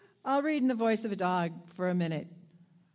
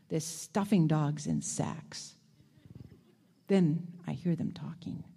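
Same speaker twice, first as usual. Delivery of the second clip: story narration. A narrator's reading. Reading story aloud.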